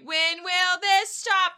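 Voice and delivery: loud, slow exasperated cry; angry outburst. Retold or imitated. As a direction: plead in frustration. Danny shouting in argument.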